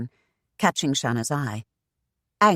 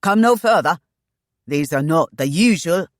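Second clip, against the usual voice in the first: warning call; 3 semitones higher, 8 dB louder than usual. A narrator's reading. Agent warns her off.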